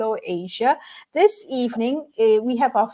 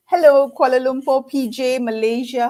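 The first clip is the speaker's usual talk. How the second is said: laughing greeting; 3 semitones higher, 4 dB louder than usual. Real, not acted.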